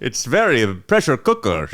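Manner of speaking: slightly put-on confessional voice; lightly voiced Uday. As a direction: confess to a therapist.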